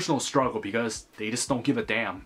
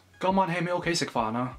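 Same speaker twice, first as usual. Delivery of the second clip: eager parent; 7 semitones higher, faster than usual. Acted. Parent asks about dinner.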